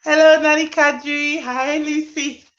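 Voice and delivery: playful exaggerated greetings; mock excited greetings. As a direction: squeal the hellos like an eager host.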